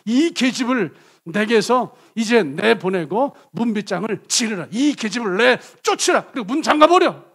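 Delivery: loud, rising anger, throwing her out; harsh dismissal. Acted. Amnon orders his servant to throw Tamar out, loud and angry. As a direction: bark the order to bar the door. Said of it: "암논이 어떻게 했는지 아세요".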